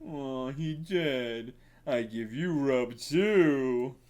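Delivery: slow, simple troll voice; a dim troll shrugging it off; slow troll voice after the kill. Acted. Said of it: "a troll".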